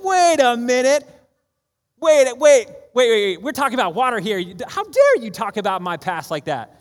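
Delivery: loud, high protest, dragging out the first wait; indignant outburst. Acted. Woman protests to Jesus about her past, indignant outburst. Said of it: "She's like".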